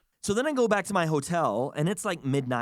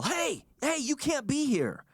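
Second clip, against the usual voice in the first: retold yell; 11 semitones higher, slower than usual. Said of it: "I hear someone yell".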